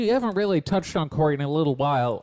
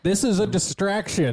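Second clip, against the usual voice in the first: higher sarcastic parroting; mocking quote; 5 semitones higher than usual. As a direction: parrot the critics with a sneer. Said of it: "there's been a lot of people saying".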